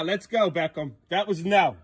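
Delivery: loud, firm telling-off; stern scolding. Real, not acted. Parent scolding Beckham for leaving the house, stern. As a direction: make him understand, hard. Scolding kid after running off.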